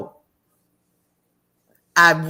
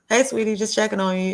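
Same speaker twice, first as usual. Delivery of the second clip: lightly voiced aunt, higher and quick; a hint of a sweet check-in call; caring aunt; 5 semitones higher, faster than usual. Aunt phoning to check on her.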